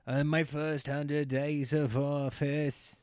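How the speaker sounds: slow, pompous politician speech. Retold or imitated. A politician promising voters, slow and pompous. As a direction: drag it out like a stump speech. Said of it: "they're like".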